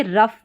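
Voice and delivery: "रफ" ending in a short uff; "ough" as uff. Shown as a demonstration. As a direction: say "रफ" with ough sounded as अफ. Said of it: "इसमें अफ करके".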